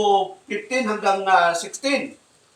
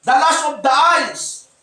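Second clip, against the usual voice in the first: slow, measured Bible reading; scripture reading; slower than usual. Acted. Pastor reading First John to the congregation, slow and measured. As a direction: read the verse deliberately to the congregation.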